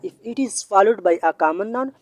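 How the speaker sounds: each word of the rule spelt out slowly; slow, deliberate classroom dictation. Shown as a demonstration. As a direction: dictate the rule so students can write it down. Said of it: "teacher repeats rule slowly".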